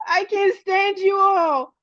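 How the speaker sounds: said high through helpless laughter, slow; laughing. Real, not acted. Host teases chat, words squeezed out through real laughter. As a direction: squeeze the words out while cracking up.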